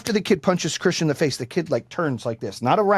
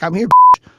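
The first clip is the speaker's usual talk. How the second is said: angry challenge; 5 semitones higher, 9 dB louder than usual. Retold or imitated. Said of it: "I was like".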